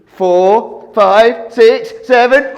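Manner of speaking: building excited count. Shown as a demonstration. Counting rabbits for kids.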